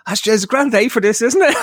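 laughing small talk. Retold or imitated. Awkward chat with old teammate.

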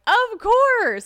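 high, loud, emphatic yes; gushing agreement. Retold or imitated. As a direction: burst out with an over-the-top yes. Eager yes to boyfriend's request.

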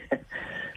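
short, soft chuckle; a small rueful laugh through the hurt; pained laugh. Real, not acted. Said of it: "I'm laughing because I'm hurting".

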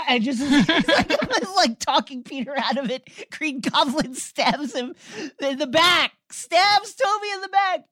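high-pitched words squeezed out through real laughter; can't stop laughing as you tell it; giggling, breaking up on every phrase; laughing while telling. Real, not acted. Cracking up retelling the stab.

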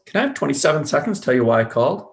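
voice going up. Shown as a demonstration. Mentor replaying the caller's request, voice going up. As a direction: lift the voice twice while asking, briskly. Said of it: "You made your voice go up twice".

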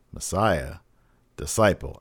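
low, soft, composed pronouncement; very calm. Retold or imitated. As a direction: deliver it coolly, a pause between the words. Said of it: "Murphy very calmly says".

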